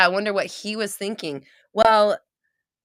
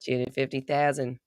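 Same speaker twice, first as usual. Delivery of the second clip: lottery winner's accent, imitated; imitated New Zealand-style accent; 3 semitones lower than usual. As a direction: mimic the winner's Antipodean accent. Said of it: "I love that accent".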